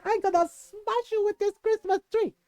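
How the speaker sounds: high-pitched mock-furious mom; retold angry threat. Mom threatens tita in quarrel.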